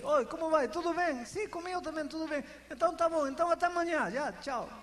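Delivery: hammed-up polite greetings, quick and bright; breezy small talk. Preacher imitating two friends in empty small talk, breezy. Shallow daily chat between friends.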